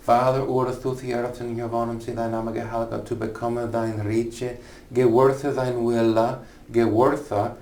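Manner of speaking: put-on fluent Old English read-through ending on "gewirthe". Shown as a demonstration. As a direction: read "gewirthe thine wille" with a hard g in "gewirthe". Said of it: "Become looks like become".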